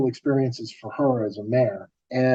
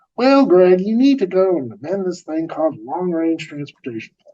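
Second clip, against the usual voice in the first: high, slight, put-on Southern US drawl; 6 semitones higher than usual. Storyteller quoting a man who spoke to him, in a southern drawl. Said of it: "I'm going to do a little bit of uh, a drawl".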